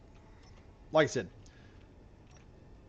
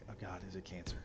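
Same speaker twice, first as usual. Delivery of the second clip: worried repeating; 3 semitones lower, 10 dB quieter than usual. Retold or imitated. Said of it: "we're like".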